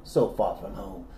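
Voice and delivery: lightly southern narration; genteel Southern storyteller; southern accent. Pretend. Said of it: "that same accent".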